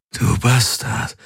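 slow, raspy and gloating; hoarse triumph over a beaten enemy; triumphant croak. Acted. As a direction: croak it out in victory. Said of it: "krächzte er triumphierend".

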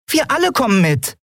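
high piping little-creature voice; squeaky chirp. A narrator's reading. Nelen backing Endriel up, high and piping. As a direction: pipe it up small and high.

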